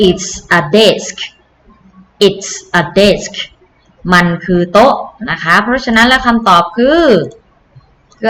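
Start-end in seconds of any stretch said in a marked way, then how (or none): 0.1-1.2 "It's a desk" said slowly and clearly; slow and clear for copying; teacher slowly models the answer. Shown as a demonstration. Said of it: "เขาตอบว่า". 2.3-3.3 "It's a desk" slow again, even and clear; teacher slowly models the answer; slow model repeat. Shown as a demonstration.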